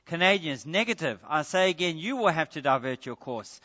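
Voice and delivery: loud, stubborn radio answer; firm loud refusal. Retold or imitated. Canadians refuse again, louder.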